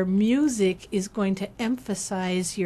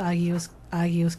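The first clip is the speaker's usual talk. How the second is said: whisper; 2 semitones lower than usual. Shown as a demonstration. Reciting hymn words.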